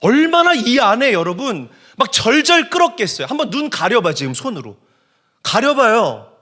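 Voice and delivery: high, loud, urgent pulpit voice; impassioned preaching. Real, not acted. Preacher making congregation feel the blind men's frustration, impassioned preaching.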